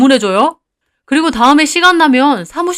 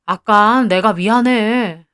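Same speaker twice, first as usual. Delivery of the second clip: coaxing; 3 semitones lower, slower than usual. Acted. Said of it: "막 아양을 떠는 겁니다".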